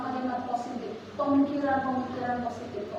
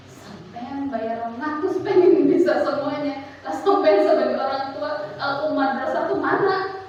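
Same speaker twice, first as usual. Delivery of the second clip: inner retort; 6 dB louder, slower than usual. Retold or imitated. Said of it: "hati saya sih".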